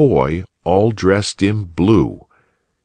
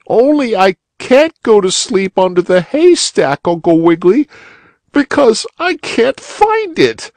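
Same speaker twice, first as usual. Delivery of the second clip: put-on very high, loud weepy child; despairing, near sobbing; crying little boy; 4 dB louder than usual. A narrator's reading.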